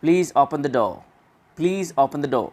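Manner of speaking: "door" ending as "daw", without any R; careful model sentence, R dropped from "door"; British silent R. Shown as a demonstration. Teacher gives a British example sentence, British silent R. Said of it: "British कैसे बोलते हैं".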